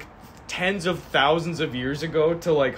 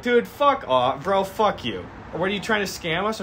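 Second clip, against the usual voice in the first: mock angry cops; 6 semitones higher than usual. Angry cops yell at driver.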